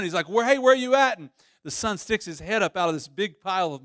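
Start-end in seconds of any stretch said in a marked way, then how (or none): 0.3-1.2 raised, louder call for a missing son; mock calling-out, pitched up; acted yell. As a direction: call out like a dad searching. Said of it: "so he yells for his son".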